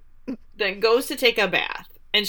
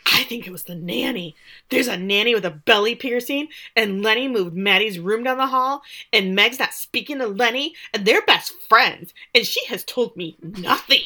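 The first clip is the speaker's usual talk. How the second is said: agitated retold rant; 3 semitones higher, 4 dB louder than usual. Gina rants about the nanny and Lenny, agitated. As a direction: rattle off grievances in mock agitation.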